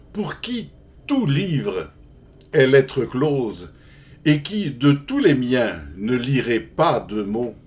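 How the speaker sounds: measured verse reading with pauses at line ends; poem recitation. Acted. Lover addressing his unlettered beloved in verse, poem recitation. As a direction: recite it as formal, rhymed love verse.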